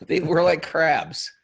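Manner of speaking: high, slow laughing crab squeak. Retold or imitated. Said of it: "that was me imitating a crab's voice".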